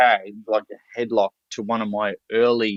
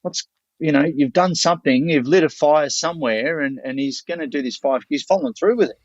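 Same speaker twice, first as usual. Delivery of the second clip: excited report; 5 semitones higher than usual. Retold or imitated. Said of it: "he said".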